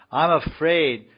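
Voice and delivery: high, loud mock alarm; acted fear. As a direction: blurt it as a playfully frightened devotee. Acts out fearful devotee.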